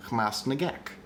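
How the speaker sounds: Hamas Nagek as one word, rising at the end; syllable break demo. Shown as a demonstration. Host testing syllable breaks, Hamas Nagek with a rise. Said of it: "what if we break the syllables".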